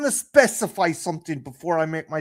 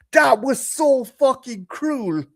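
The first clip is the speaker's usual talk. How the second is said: slow, higher, louder furious line; angry outburst; 8 semitones higher, 5 dB louder, slower than usual. Real, not acted. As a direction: spit out cruel in real anger. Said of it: "I got so angry".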